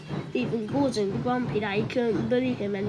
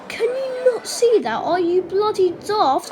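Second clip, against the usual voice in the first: snapping back; 8 semitones higher, 6 dB louder than usual. Acted. Thomas snaps at the signalman.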